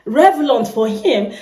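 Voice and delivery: ordinary talk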